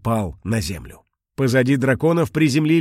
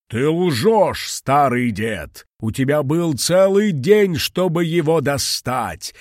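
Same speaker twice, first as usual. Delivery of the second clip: hissing; 4 semitones higher, 4 dB louder, slower than usual. Acted. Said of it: "прошипел дракон".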